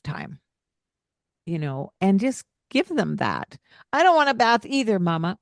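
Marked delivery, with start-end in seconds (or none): 3.9-5.4 put-on high, fast child voice resisting bath; whiny child. Parent voicing her child refusing the bath, high and quick. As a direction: play the reluctant kid, quick and high.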